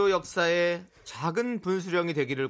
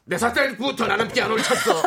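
put-on higher, louder old grandpa voice; very old man; 6 semitones higher, 5 dB louder than usual. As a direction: play a boastful old grandfather. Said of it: "왜 할아버지 연기한 거냐?". (할아버지 흉내 목소리)

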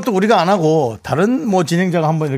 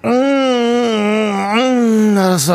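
lazy husband groaning; slower than usual. Acted.

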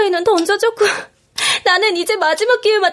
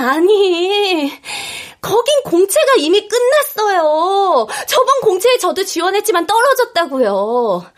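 tearful protest; slower than usual. Acted.

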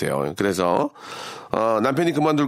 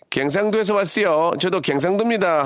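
lightly imitated Gyeongsang dialect, pitched higher; 경상도 사투리; 5 semitones higher than usual. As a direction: voice a taxi driver with a hint of Gyeongsang accent. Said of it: "기사님과 사투리로 대화하면서". (경상도 사투리를 살짝 흉내 내는 말투)

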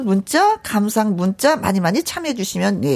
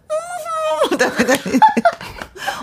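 high squealy laugh. Shown as a demonstration. Tries the trick herself.

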